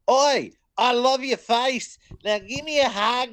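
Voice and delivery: loud, high, drawn-out mock Aussie; Australian accent. Co-host mocking an Aussie wrestler as rom-com lead, hammed-up Australian accent. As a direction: put on a broad, shouty Australian accent. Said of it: "You can't with that accent".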